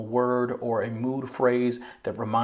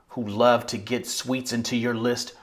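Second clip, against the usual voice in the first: knowing, finger-pointing poem line; knowing better. Shown as a demonstration. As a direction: recite it as one who knows better. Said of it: "I think knowing better".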